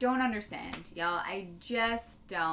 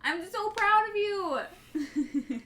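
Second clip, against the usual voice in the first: laughing; 12 semitones higher, 5 dB louder, much slower than usual. Real, not acted. Teasing praise, laughing.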